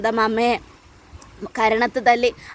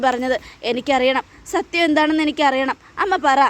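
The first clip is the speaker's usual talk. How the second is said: higher, urgent begging daughter, rising to a near cry; pleading distressed daughter; 3 semitones higher than usual. Acted. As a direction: push her to tell the truth, voice climbing. Daughter begs mother for truth. (അമ്മയോട് സത്യം പറയാൻ കെഞ്ചുന്ന മകളുടെ ഉയർന്ന ശബ്ദം)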